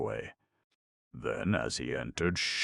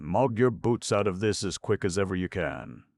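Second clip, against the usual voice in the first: prompt dismissal; 4 semitones higher than usual. Acted. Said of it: "replied with great promptitude".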